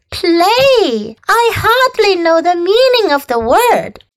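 high, squeaky scornful rat; twitchy squeaking rat voice. Acted. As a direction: sneer it like a sly rat.

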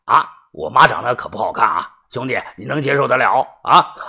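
low, chummy joke ending in a chuckle; joking laugh-off. Acted. Debtor joking to the caller he cursed, laughing it off. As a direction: laugh it off with your buddy.

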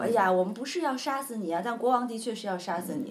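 a crying servant comforts him; mild mock tears; tearful servant. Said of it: "就掉眼泪了".

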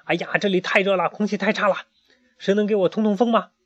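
high, fretful duck cry; restless complaining. A narrator's reading. Emma complains the room is too hot, high fretful cry. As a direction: fuss and complain, short of air. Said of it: "还大声叫着".

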